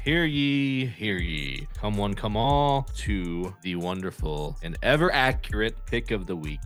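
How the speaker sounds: hear ye crier proclamation; town crier. Acted. Town crier announcing pick.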